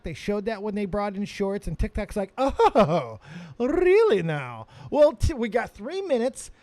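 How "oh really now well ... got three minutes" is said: smug taunt. Retold or imitated. TikTok voiced taunting YouTube.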